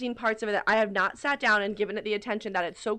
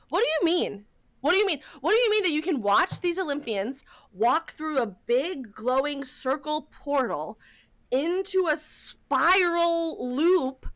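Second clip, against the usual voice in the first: high, insistent disbelief; incredulous; 5 semitones higher than usual. Acted. Challenging people who deny the magical ritual, incredulous. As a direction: push the pitch up and stretch the key words. Acted disbelief at ceremony watchers.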